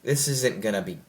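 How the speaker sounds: low, dragged-out groan of a line; weary dread. Retold or imitated. Hearing of the sequel, a low weary dread. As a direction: sigh it out as if dreading it. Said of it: "I was like".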